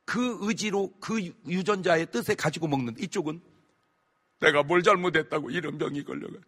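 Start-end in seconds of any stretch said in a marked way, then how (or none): 4.4-6.3 resentful complaint. Retold or imitated. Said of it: "원망하다 죽어가는 거야".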